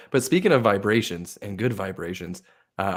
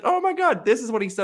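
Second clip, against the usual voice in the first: much higher squeal; mock excited guest; 12 semitones higher, 3 dB louder than usual. Guest telling her friends, excited squeal. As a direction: gossip it to the girls.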